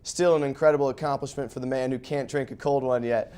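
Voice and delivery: sports highlight voiceover; golf commentator. Acted. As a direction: narrate the golf highlights with energy. Voiceover over Masters highlights.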